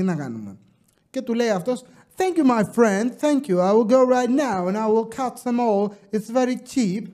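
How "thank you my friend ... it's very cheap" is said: put-on higher-pitched tourist accent; put-on English accent. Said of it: "Θα το πω και με προφορά".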